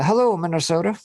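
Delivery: loud high mock rally yell. Mocking Biden's rally greeting, loud mock yell. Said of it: "Joe Biden yells in Florida".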